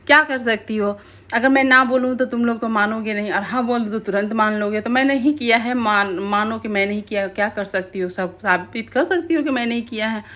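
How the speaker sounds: mildly acted brazen admission; retold cocky challenge, lightly played; defiant attitude. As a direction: own up to it like a dare. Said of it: "एकदम attitude में खड़ा होकर".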